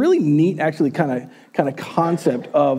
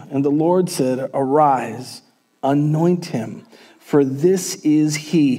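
measured, solemn Bible reading to the congregation; scripture reading. Acted. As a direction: pastor reading the day's text aloud, solemn. Reads the scripture passage aloud.

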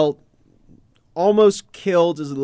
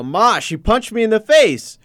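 higher, louder complaint to mom; whiny kid; 8 semitones higher, 7 dB louder than usual. Retold or imitated. Eight-year-old telling mom his sister punched him, higher tattling voice. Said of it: "I go".

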